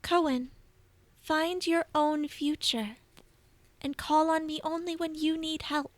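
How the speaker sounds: soft, fond praise from a deity; lightly voiced tender goddess. Bast comforting her loyal servant Cohen, a soft, tender goddess voice. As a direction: hold his face and bless him gently.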